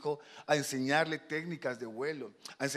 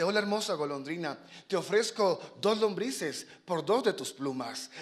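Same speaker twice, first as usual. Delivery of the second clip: wheedling fox vendor; 4 semitones higher, 5 dB louder than usual. Acted. Fox offering the swallow worms for feathers, wheedling. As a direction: coax the customer with a sweet offer.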